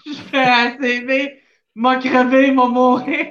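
laughing through a mock panic. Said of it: "t'as-tu dis ça en riant".

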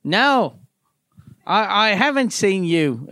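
put-on British accent slipping into Australian; wobbly put-on British accent; attempted British accent. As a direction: try British, land nearer Australian. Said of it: "now I sound Australian".

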